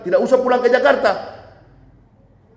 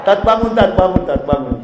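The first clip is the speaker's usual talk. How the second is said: gentle waking; 3 semitones lower than usual. Acted. Angel gently waking the preacher with a hand, tender call. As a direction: coax him awake kindly. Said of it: "pakai tangan, lembut sekali".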